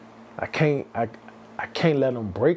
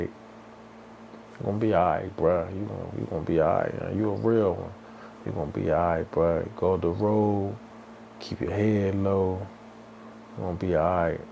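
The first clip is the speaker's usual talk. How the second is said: low, soft retold consoling; quiet reassurance; 5 semitones lower, 4 dB quieter than usual. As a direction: lightly voice a friend's steady reassurance. Friends consoling him after the verdict.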